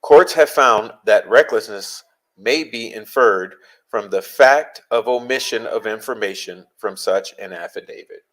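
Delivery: slow, weighty reading for emphasis; slow deliberate reread. Shown as a demonstration. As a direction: read it again slowly, word by word. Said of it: "So let's read that again".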